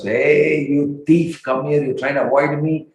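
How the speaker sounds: lightly acted accusing call. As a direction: call the culprit over, mildly scolding. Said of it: "he called upon Raghunath Das".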